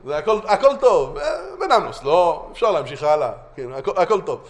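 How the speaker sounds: imitated breezy dismissal; hammed-up unconcern; mock indifference. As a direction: wave the problem away, all is fine. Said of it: "נשארים עם הידיים בכיסים".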